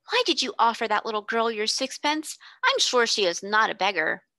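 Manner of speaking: put-on alarmed girl. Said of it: "Janet exclaimed alarmedly".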